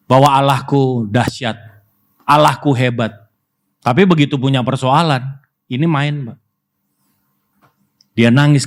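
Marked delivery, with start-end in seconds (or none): none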